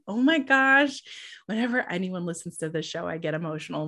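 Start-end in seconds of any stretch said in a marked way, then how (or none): 0.1-1.0 high, louder mock gush; gushing oh my gosh. Host acting out how she reacted to praise, gushing high. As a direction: replay her own moved reaction. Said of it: "I was just like".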